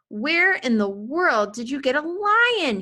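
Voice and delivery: father yelling at his son; yelled. A narrator's reading. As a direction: yell it at the boy. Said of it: "he yelled at James".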